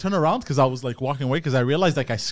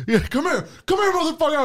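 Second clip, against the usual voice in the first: retold yell; 11 semitones higher than usual. Driver yells at the skateboarder, mock threatening yell. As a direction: call him over, hammed-up threat. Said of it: "I'm yelling at him".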